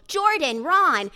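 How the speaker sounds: loud, high call through the house; urgent summons. A narrator's reading. Mother at the door calls son and husband, urgent shout. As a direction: call them so they come running. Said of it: "Her voice sound like we ought to come running".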